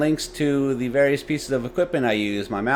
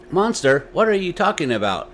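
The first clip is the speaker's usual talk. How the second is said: a touch of disbelief, higher; incredulous father; 7 semitones higher, 4 dB louder than usual. A narrator's reading. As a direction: question the child in disbelief.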